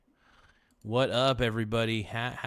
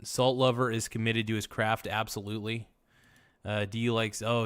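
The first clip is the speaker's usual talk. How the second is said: ordinary talk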